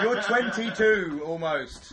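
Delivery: laughing through the words; giggling disbelief. Real, not acted. Laughing at friend's age.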